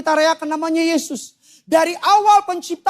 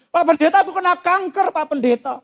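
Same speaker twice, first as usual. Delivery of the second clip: mock tearful plea; imitated sobbing; 3 semitones higher than usual. Weeping congregant tells pastor of her cancer, mock sobbing. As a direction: imitate a woman crying out her news. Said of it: "Dia nangis kejar, dia bilang gini".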